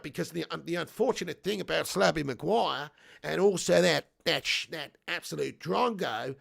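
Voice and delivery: swooping mock-Aussie chat; bad Australian accent. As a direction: keep up a hammed-up Australian accent. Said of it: "sorry for that abomination of an accent".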